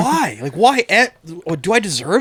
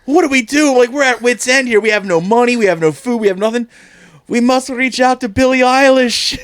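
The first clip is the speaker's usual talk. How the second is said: mock desperate plea; 6 semitones higher than usual. Voicing desperate orphanage staff.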